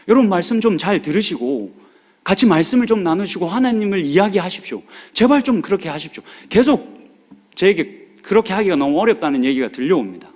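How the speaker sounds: impassioned plea. Real, not acted. Pastor scolding congregation, rising.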